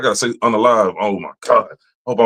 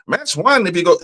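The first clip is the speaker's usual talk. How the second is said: higher voice lightly imitating the phone menu; mock automated menu; 7 semitones higher than usual. Mimicking the phone menu, a light robotic read. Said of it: "they keep on".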